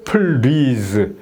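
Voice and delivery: drawn-out "please" as peul-reez; wrong "please", extra vowel before a rolled second syllable; R-like mispronunciation. Shown as a demonstration. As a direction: say "please" in two beats with an R-like sound. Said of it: "R 발음으로 이렇게".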